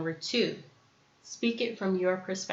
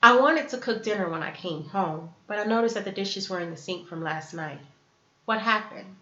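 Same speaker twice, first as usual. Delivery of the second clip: non-blaming. Acted. Coming home to dishes in the sink, calm and non-blaming. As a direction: state it evenly, then ask openly. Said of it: "a little bit of a different way".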